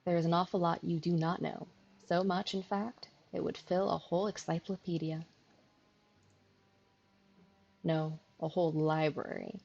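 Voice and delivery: lightly put-on country accent; teasing rural girl, country accent. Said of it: "trying my hand at an accent again".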